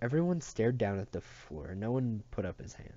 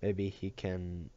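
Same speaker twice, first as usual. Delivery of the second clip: faltering. Acted. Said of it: "someone else faltered".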